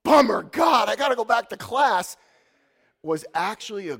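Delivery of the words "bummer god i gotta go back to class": a touch louder, hammed-up whine; imitating a teen grumbling about class; mock disappointment. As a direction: groan like a let-down student. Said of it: "So what was sort of like".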